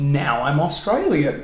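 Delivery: slow, put-on Australian; drawn-out broad Australian; Australian accent. Retelling learning the accent at twelve, slow Australian. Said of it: "have my voice drop and then".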